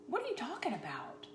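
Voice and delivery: hushed whisper, playing innocent; whispered denial. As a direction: whisper it like you're caught. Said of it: "And I was like".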